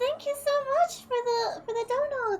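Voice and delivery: excited. Real, not acted. Thanking a viewer for a donation.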